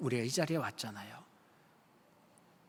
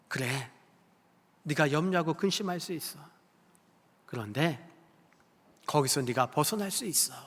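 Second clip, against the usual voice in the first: gentle invitation; 4 dB quieter than usual. Acted. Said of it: "그렇게 초대하며 부르셨다는 거예요".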